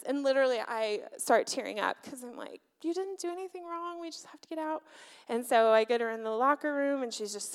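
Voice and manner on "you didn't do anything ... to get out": higher, softer tender voice; mildly pleading, hushed reassurance; gently consoling. Retold or imitated. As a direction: softly soothe an upset child, retold. Tearful mother consoling her upset child.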